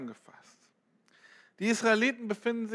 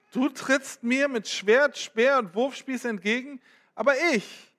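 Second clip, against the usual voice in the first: bold defiant reply; 2 semitones higher than usual. Acted. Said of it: "David rief zurück".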